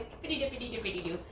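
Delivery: quick sing-song nonsense chant; lightly voiced kid rhyme; sing-song Laura. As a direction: rattle it off like a carefree little girl. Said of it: "And then she's like".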